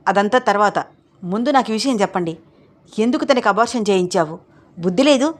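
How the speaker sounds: rising to a shout on the last question; scolding shout. Acted. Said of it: "అరుస్తోంది Annapurnamma".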